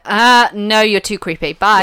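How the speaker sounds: sharp, loud brush-off; loud rebuff. Retold or imitated. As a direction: shut him down loud. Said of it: "and she was like".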